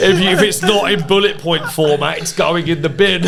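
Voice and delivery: quoting through loud laughter; can't stop laughing mid-quote. Real, not acted. Laughing hard while quoting the boss's curt reply.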